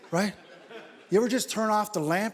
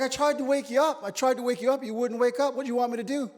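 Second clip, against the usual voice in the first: higher, exasperated mock protest; pleading self-defense, pitched up; 6 semitones higher, faster than usual. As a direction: throw up your hands defending yourself. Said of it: "I was like".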